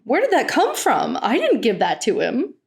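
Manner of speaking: a hint of her outraged control; imitating Teal. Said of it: "she didn't control that thought".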